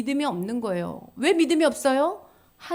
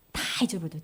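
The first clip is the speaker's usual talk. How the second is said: soft echo; 7 semitones lower, 7 dB quieter, much faster than usual. Shown as a demonstration. Repeated phrase, second take.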